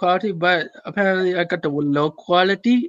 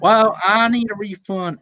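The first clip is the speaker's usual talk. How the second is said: imitated Southern US caller; Southern US accent; 2 semitones higher than usual. Prankster insists to Domino's, mock Southern accent. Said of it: "southern part of the U S".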